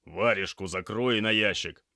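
loud, firm order; sharp command. A narrator's reading. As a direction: shut a gawping trainee up. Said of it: "скомандовал Алексей".

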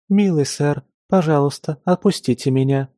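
lightly voiced, polite young maid; high sweet maid voice. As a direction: ask sweetly in a high girlish voice. Narrator voices the stranger girl.

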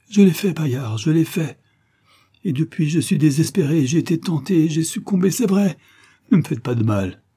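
high-pitched pleading admission; desperate, pleading whine; frightened confession. A narrator's reading. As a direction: confess in abject fear. Terrified man confessing and begging.

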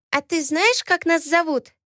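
put-on high eager childish voice; a small girl asking eagerly; curious little girl. Twin asks Alaena a question, curious childish voice.

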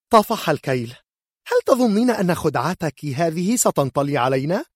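loud, high indignant outburst; furious mother confronts the healer; fed-up accusation. Acted. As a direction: snap that enough is enough. Mother loses patience, accuses.

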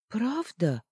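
high, timid hopeful ask; hope she means it; hopeful question. Acted. Фитчик с надеждой переспрашивает друзей, высоко. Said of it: "с надеждой спросил Фитчик".

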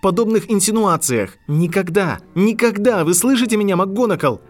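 high, loud furious outburst; rising rage. A narrator's reading. Harry furious at McGonagall, high loud rage. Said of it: "гнев Гарри всё больше выходил из-под контроля".

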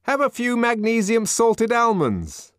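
high, loud nervous coaxing; nervous offer. A narrator's reading. Man offering almonds to the savage, nervous smiling coaxing. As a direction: placate him with a smile. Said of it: "with a rather nervous smile of propitiation".

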